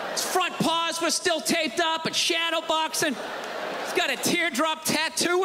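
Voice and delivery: incredulous rant. Retold or imitated. Arguing over the dog.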